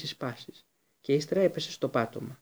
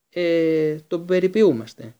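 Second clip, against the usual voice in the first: louder, higher defensive protest; 4 semitones higher, 7 dB louder, slower than usual. Acted. Ron defends his rat to Lupin, loud and insistent.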